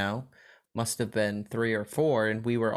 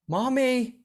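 put-on much higher, slow small girl voice; little girl yelling; 11 semitones higher, 4 dB louder, slower than usual. Daughter in the cart calling down the aisle in a high little girl voice. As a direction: call it out like a three-year-old. She yells.

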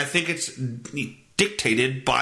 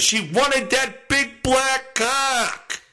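mocking voice; 11 semitones higher, much slower than usual. Mocking the woman's motive.

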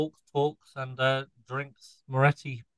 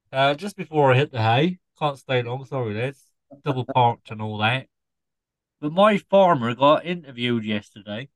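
put-on Norfolk scarecrow accent. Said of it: "explain the accent".

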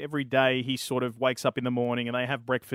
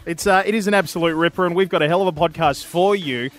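upbeat, punched show line-up; podcast announcer intro; 4 semitones higher, 5 dB louder than usual. Real, not acted. Host presenting this week's guest, lively announcer delivery. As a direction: sell the special guest to the listeners. Reads episode line-up over music.

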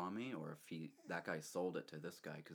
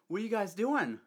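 higher, louder angry shout; angry demand; 14 semitones higher, 11 dB louder than usual. Retold or imitated. Angry owner confronting trespassers, shouting higher and louder. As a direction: bark it at the kids like the furious owner. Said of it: "and he's like".

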